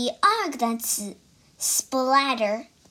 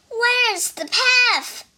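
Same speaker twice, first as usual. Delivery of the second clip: slow, much higher, louder panicked cry; 11 semitones higher, 6 dB louder, slower than usual. Acted. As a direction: wail it out, lost and blind. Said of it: "cried Toad".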